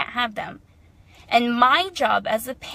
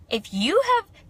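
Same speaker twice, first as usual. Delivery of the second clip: higher mocking voice for the commenters; 9 semitones higher than usual. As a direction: sneer at the online commenter. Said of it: "parents are like".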